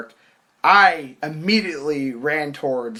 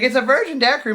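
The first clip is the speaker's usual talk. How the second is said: mimicked annoying girl; 9 semitones higher, 4 dB louder, faster than usual. Mimics annoying girl pushing drink.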